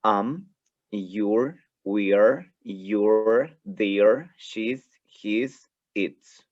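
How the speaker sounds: "you're", "we're", "their" as one syllable with a rise; contracted forms modelled. Shown as a demonstration. Teacher contrasts contractions with full forms for class. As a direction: clip "she's" and "his" into single short syllables. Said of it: "con contracción, la pronunciación va a cambiar".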